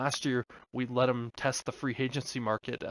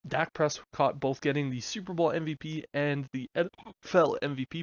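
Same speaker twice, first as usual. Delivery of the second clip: talking through the hiccups; speaking between hiccups; 3 semitones higher than usual. Real, not acted. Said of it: "pardon me as I'm hiccuping".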